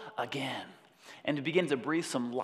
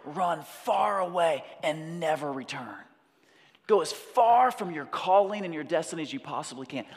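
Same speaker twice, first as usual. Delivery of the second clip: Scar's command; 2 semitones higher, 3 dB louder than usual. Acted. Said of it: "And Scar says".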